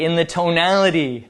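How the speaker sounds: usual speaking voice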